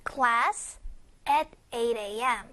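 "Class" lifted at the end, a break, then low, slow "at eight A M"; pause after Class. Shown as a demonstration. Teacher showing where to rest after class, deliberate pause. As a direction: hold a clear pause between "Class" and "at eight A M". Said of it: "class 하고 한번 쉴 겁니다".

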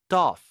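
"doff" short, loud, fused from "ripped off"; linked doff. Shown as a demonstration. Teacher showing linking as doff. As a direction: run the t into "off": doff. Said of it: "doff 이러면서 연음 강세".

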